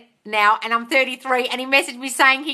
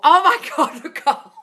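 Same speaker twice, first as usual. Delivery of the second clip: higher and louder, laughing through it; real laugh mid-exclamation; 11 semitones higher, 6 dB louder than usual. Real, not acted. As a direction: burst out laughing at the news. Reacting to comment, laughing.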